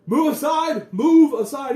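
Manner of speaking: high, loud shout to clear the road; guard shouting. Acted. Guard yells at people blocking the cart, loud and high. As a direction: bark at the crowd to move aside.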